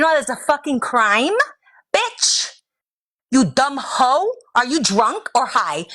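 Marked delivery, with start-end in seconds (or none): 1.9-4.3 angry jab. Real, not acted. Insult at end of rant.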